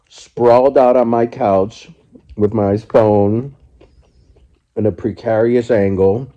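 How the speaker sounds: talking while eating; words round a bite of salad; mouth full. Real, not acted. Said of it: "barely showing the food I'm eating".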